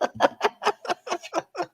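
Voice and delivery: long, high fading laugh. Real, not acted. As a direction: laugh till it trails off. Laughing at husband's joke.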